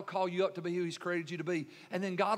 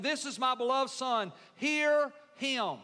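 higher, emphatic proclamation; heavenly proclamation; 3 semitones higher, slower than usual. Acted. Preacher quotes the voice from the cloud, emphatic proclamation. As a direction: announce it with authority.

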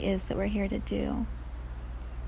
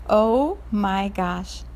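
put-on dismayed little girl; 3 dB louder, slower than usual. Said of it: "She starts crying".

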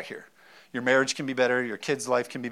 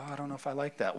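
mock doubtful listener; 10 dB quieter, much faster than usual.

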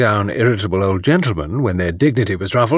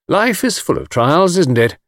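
cheerful; 7 semitones higher than usual. A narrator's reading. Anthony soothing Mrs Caldecott, cheerful. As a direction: console her with cheery unconcern. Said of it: "said Anthony cheerfully".

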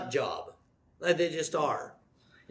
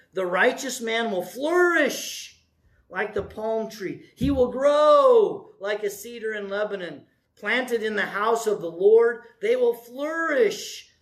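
scripture reading. Acted. Reading scripture slowly aloud.

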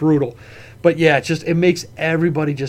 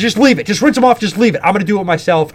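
raised-pitch imitation of an impatient mom; mildly mocking mom quote; mom's attitude; 4 semitones higher, 4 dB louder than usual. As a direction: mimic mom taking over a chore. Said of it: "When they cop the attitude".

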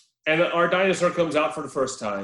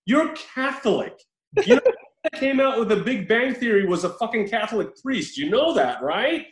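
mock indignant; 6 semitones higher than usual. Real, not acted. Mock rant at the priest.

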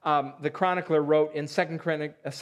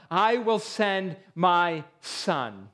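landowner resolving; much slower than usual. Pretend. Landowner's decision, voiced.

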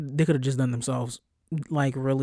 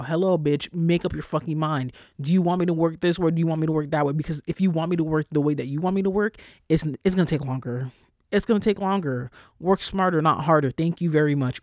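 louder, fed-up ranting; pissed off; 4 dB louder than usual. Real, not acted. Ranting to listeners about bosses' work style demands, fed up. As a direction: vent like you've had enough. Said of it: "I sound so fucking pissed off".

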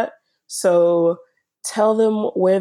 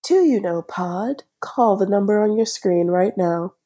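fake urgent rush. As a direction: sell it like a late-night infomercial. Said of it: "infomercial voice".

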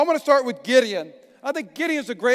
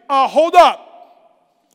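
mock objection; 2 semitones higher, 6 dB louder, much slower than usual. Gideon interrupting the angel.

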